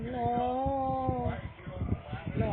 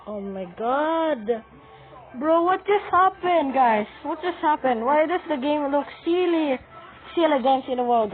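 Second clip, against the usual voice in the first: shocked shouting; 3 semitones higher, 8 dB louder than usual. Real, not acted. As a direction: shout in total disbelief. Shocked loud reaction.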